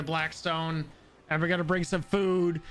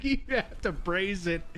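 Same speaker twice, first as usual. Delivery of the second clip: slower, higher mock quote; teasing retelling, slightly higher; imitating him; 4 semitones higher than usual. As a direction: draw it out, mimicking his advice. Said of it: "He's like".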